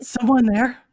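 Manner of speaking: loud dumb dog voice, rising; dog speaking broken English. Acted. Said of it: "what sounds to you like broken English because it's a dog".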